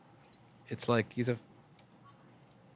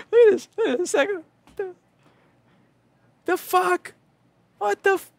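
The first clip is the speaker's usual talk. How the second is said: furious yelling; 9 dB louder than usual. Real, not acted. Raging at a dead board.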